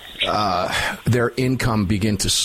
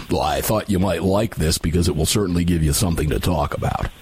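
lower, put-on take on an old friend's voice; imitating a colleague's phone call in a lower voice; Dave Workman impression; 6 semitones lower than usual. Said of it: "I'll do my best Dave Workman impersonation".

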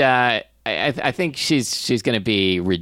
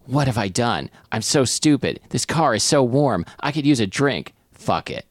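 measured first-person narrator reading; narrating a comic tale; story narration. Acted. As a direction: read the story aloud. Reads story aloud.

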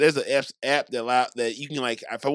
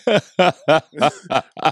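a low mock celebrity voice; 8 semitones lower than usual. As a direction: mumble the shoutout order low. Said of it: "Matthew McConaughey might be".

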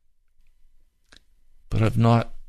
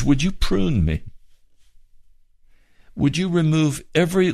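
higher, earnest pleading to Jesus; pleading prayer; 5 semitones higher than usual. Retold or imitated. Preacher reenacts his prayer to Jesus, pleading. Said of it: "just pleading with Jesus".

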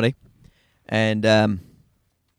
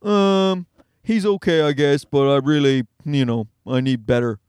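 hesitant, half-convinced mock reply; lightly acted lukewarm hedging; imitated reluctant woman. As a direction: voice a woman politely unimpressed by her partner. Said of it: "she was kinda like".

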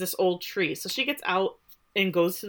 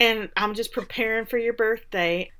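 lightly put-on sweet accent; the speaker's horrible accent; 3 semitones higher than usual. The speaker to her twin on video, sweet bad accent. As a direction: do a mildly hammed, sweet accent. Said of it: "in this horrible accent".

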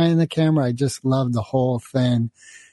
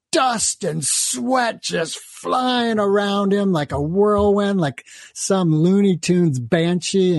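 dramatic storytelling; 5 semitones higher than usual. A narrator's reading. Dramatic tale of raging samurai.

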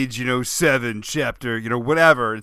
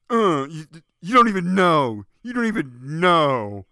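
sulky comeback; 2 semitones higher than usual. Pretend. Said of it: "walking away, stomping his feet".

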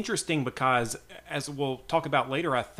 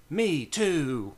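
lightly acted eager agreement; drawn-out, keen echo; She-Ra; 3 semitones higher than usual. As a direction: chime in with mild enthusiasm. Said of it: "because she's like".

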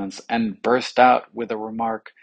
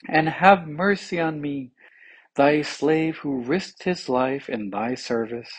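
formal, grand plea; eloquent; 3 semitones higher than usual. A narrator's reading. Tongue begs the king for mercy, eloquently. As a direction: plead with measured oratory. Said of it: "displayed all its power of eloquence".

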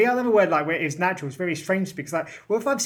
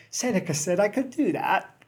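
mock rule-breaker excuse; 3 semitones higher than usual. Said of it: "you can't say".

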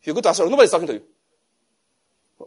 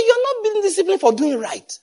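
emphatic quote. Retold or imitated. Corrected quote, preached high.

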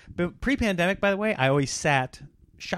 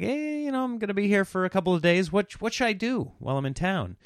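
retold small talk; 5 semitones higher than usual. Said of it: "making small talk with this guy".

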